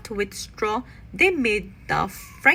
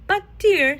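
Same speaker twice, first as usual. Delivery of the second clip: pleading papa; 7 semitones higher, 5 dB louder than usual. A narrator's reading. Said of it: "said Papa".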